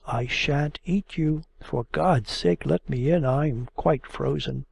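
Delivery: ordinary delivery, nothing marked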